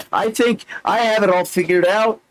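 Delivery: high, rising at the end; high-pitched recitation. Acted. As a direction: recite it high and leave it hanging. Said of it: "read it like I'm the Micro Machine Man".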